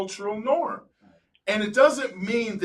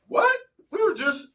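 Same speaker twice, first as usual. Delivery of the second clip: sharply higher mock "what?"; retold disbelief; 14 semitones higher than usual. Retelling his shock at the Black friends, high incredulous. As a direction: play the stunned double-take again.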